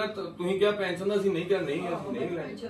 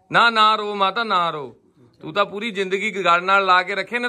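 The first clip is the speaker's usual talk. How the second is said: loud but soothing, telling her not to cry; loud reassurance to a tearful mother; comforting; 2 semitones higher, 6 dB louder than usual. Real, not acted.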